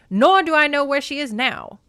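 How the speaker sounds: put-on high, loud old-movie delivery; nineteen-forties actor. Hermes denies knowing where Kor is, old-movie actor voice. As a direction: protest like a forties film actor. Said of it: "nineteen forties actors".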